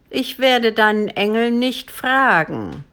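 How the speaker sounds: a touch of monster defiance; threatening dragon. A narrator's reading.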